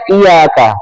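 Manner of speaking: "iyyaka" said with a single light y, i-yaka; missing tasydid. Shown as a demonstration. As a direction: drop the doubling of y in "iyyaka". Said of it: "Nggak boleh dibaca".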